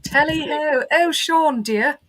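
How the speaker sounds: put-on high, prim Mary Poppins British accent. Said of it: "really good, like, Mary Poppins British accent".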